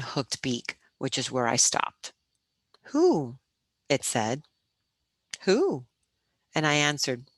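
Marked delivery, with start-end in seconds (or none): 2.9-3.4 high, hooting owl call. A narrator's reading. White owl questions the boy in the rafters, high hoot. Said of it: "one of those big white owls". 5.4-5.9 high, hooting owl call. A narrator's reading. White owl questions the boy in the rafters, high hoot. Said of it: "one of those big white owls".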